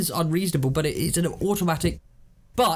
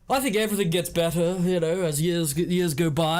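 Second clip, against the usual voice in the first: posh Will. Acted. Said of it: "You do sound like that".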